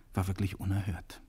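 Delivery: usual speaking voice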